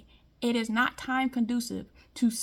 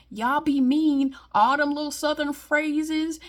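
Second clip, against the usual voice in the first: slow, louder, hammering each word; slow, louder pointed scolding; emphatic callout; 4 semitones higher, 6 dB louder, slower than usual. Real, not acted. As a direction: land the accusation hard. Calling out Southern fake niceness.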